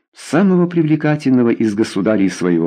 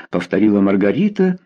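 ordinary delivery

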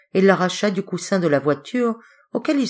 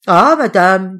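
heartfelt; 2 semitones higher, 10 dB louder, slower than usual. A narrator's reading. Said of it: "d'un ton pénétré".

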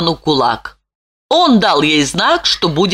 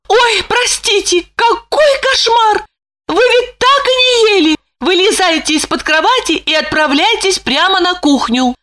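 much higher flustered woman's voice giving orders; commanding Lipochka; 13 semitones higher than usual. A narrator's reading. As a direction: gasp an apology, then order him to the kitchen. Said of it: "скомандовала она".

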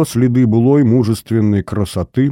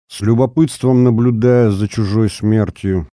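ordinary delivery, nothing marked

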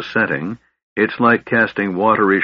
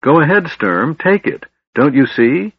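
urgent, much higher and louder plea; excited cry; 8 semitones higher, 4 dB louder than usual. A narrator's reading. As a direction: urge him on eagerly. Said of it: "cried Laurana".

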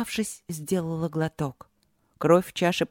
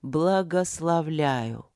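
thunderous voice; much slower than usual. Acted. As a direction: bless slowly like a god. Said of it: "раздался громовой голос".

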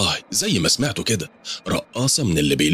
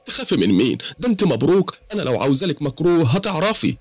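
higher, pleading woman's voice, close to tears; pitched-up, pleading storyteller's woman; tearful woman; 11 semitones higher than usual. Acted. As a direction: voice the frightened client as she pours out her troubles. Suad answers defensively.

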